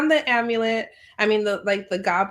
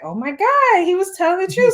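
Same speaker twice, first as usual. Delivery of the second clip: higher and louder gasp of realization; shocked realization; 9 semitones higher, 6 dB louder, faster than usual. Retold or imitated. Sin seeing the skeleton arm reach for her. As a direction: realize in alarm he was right. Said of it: "And she's like".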